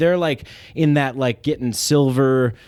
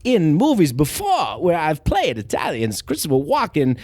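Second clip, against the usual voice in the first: Christopher Walken. Retold or imitated. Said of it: "You gotta do it a little more pronounced".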